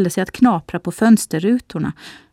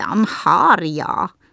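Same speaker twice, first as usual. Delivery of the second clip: contemptuous, scornful sneer in a witch voice. The witch notices the two children approaching and speaks, scornful. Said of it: "hade hon sagt hånfullt".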